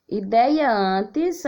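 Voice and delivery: ideia said slowly, open é stressed; teacher spelling aloud. Shown as a demonstration. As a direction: draw out ideia with an open é for the class. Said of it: "Antes da reforma".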